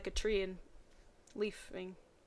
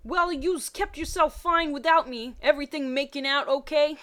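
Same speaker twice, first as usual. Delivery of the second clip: teasing voice; 5 semitones higher, 7 dB louder than usual. Acted. Brock teasing the couple.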